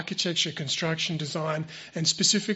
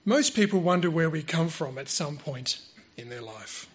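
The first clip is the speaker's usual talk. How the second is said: prepared sermon delivery; 5 dB louder than usual. Real, not acted. Speaker presents a prepared creation talk to church, measured formal delivery. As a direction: deliver it point by point, leaning on key words.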